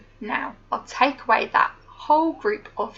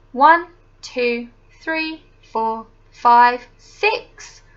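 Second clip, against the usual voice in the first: put-on teaching a child to count; 5 dB louder, much slower than usual. Counting blocks aloud with a child.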